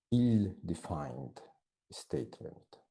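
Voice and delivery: "ill-defined" stretched out syllable by syllable, very slowly; slow careful word. Shown as a demonstration. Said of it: "I'm going to write it down".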